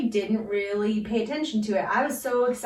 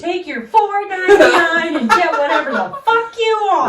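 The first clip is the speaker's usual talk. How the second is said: laughing; 8 semitones higher, 10 dB louder than usual. Real, not acted. Mocks the cheap gift laughing.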